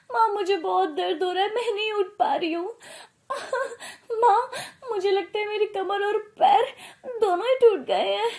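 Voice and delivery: hammed-up whimpering with laughs breaking through; fake crying. Bride pretends her back and legs are broken, fake sobbing. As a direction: fake tears to milk the injury.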